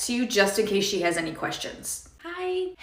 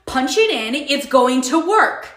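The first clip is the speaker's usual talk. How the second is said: bossy demand; 4 semitones higher, 4 dB louder than usual. Acted. Karen customer bossing the cashier.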